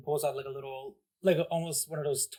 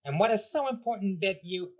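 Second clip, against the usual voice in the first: small villain voice; 6 semitones higher than usual. Acted. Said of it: "and he goes".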